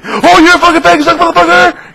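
shrill, very high, loud troll screech; troll yelling. Retold or imitated. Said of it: "they'll fucking start yelling".

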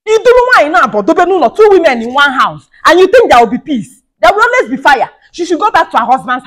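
high, loud warning; shouted complaint. Acted.

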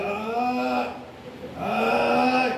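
long drawn-out mock "ay"; drawn-out, put-on ailing moan; dramatized moaning. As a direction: imitate an old man's hammed-up groan of pain. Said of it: "él dramatizaba las cosas".

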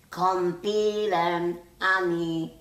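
put-on high, loud toddler pleading; begging toddler. A narrator's reading. Little sister begs her sulking brother, pleading. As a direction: beg like a tiny girl. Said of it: "bettelt Franziska".

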